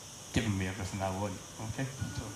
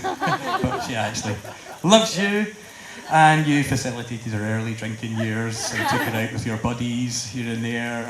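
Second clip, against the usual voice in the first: laughing; 7 dB louder than usual. Real, not acted. Laughing through speech.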